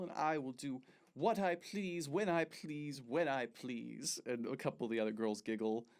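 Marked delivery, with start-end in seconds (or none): 0.0-2.1 pompous boast. Acted. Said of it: "all right, you ready?". 2.1-4.2 drawn-out pompous repeat. Acted. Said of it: "all right, you ready?".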